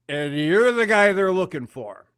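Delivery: put-on retelling the drunk's line while laughing. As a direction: crack up as you tell it.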